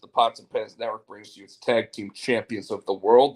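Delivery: booming ring announcer intro; grand entrance announcement. Acted. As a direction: announce them like a wrestling show.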